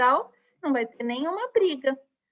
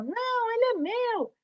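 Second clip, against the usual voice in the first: 1 outra vogal; 11 semitones higher than usual. Acted. Second vowel tugging back.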